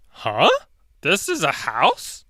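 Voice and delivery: lightly voiced puzzled T-Rex. T-Rex doubting the stone house.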